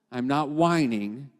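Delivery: slowed, rising on whining; a slow, deliberate, steadier restatement; slow firm repeat. Shown as a demonstration. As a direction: say it slowly, lift whining.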